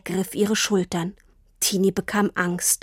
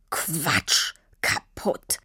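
lower, quieter bitter scoff; 4 semitones lower, 4 dB quieter, much slower than usual. A narrator's reading. Papa scoffs at Tini's excuse. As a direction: contempt in his voice.

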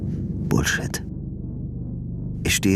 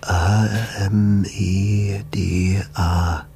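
spelling slowly; much slower than usual. Acted. Deciphering letters one by one.

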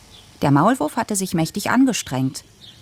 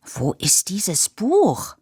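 upset call; 4 semitones higher, much slower than usual. A narrator's reading. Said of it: "rief Papa aufgebracht".

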